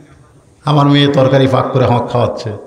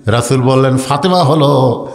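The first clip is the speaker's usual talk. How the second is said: melodic waz preaching; 2 semitones lower, slower than usual. A narrator's reading.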